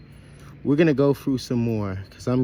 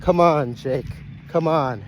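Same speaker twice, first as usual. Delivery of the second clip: calling out; 4 semitones higher than usual. Real, not acted. Coaxing runaway Jake back.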